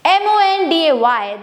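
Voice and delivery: slow letter by letter spelling; spelled out slowly. Shown as a demonstration. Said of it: "when you want to say".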